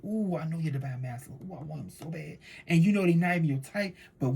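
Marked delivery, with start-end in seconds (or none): 0.0-2.4 swooning aside. Retold or imitated. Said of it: "you say".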